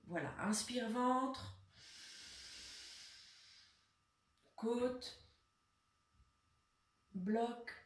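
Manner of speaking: sparse, unhurried meditation-style guidance; guided breathing. Real, not acted. Leads a breathing exercise.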